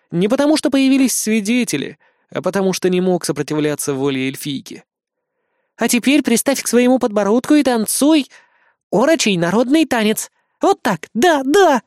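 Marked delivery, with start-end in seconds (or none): 5.8-11.8 laughing. A narrator's reading. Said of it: "засмеялась Лана".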